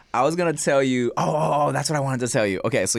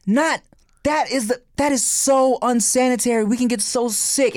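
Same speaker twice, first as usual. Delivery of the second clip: mock angry; 11 semitones higher than usual. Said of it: "He's like".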